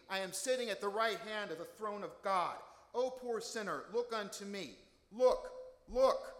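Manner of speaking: rising from firm to a high, loud cry on the last look; building fervent preaching. Retold or imitated. Deacon voicing Jesus to the congregation, building to a fervent shout. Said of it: "Assuming the perspective of Jesus, the preacher continued".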